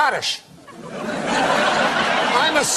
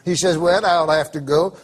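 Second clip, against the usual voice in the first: Southern drawl. Retold or imitated. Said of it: "I can tell by the accent".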